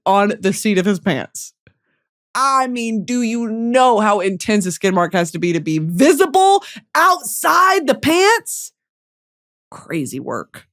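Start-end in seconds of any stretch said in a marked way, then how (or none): 5.8-8.7 incredulous shout. Real, not acted. Host shocked at the skid mark story. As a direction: stretch it out in shock.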